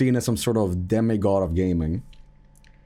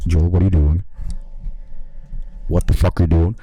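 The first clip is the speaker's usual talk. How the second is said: inner panic; 7 semitones lower than usual. Retold or imitated. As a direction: scold yourself in a panic. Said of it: "inside I'm like".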